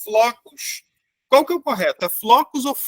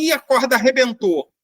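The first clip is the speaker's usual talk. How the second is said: casual quote; 4 semitones higher, 3 dB louder than usual. Retold or imitated. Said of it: "a gente fala assim".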